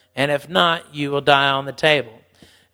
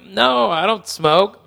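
innocent denial; 5 semitones higher, 5 dB louder, slower than usual. Retold or imitated. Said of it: "And I'm like".

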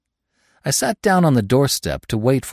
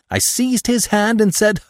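overjoyed; 13 semitones higher, 5 dB louder than usual. A narrator's reading. Overjoyed cheer.

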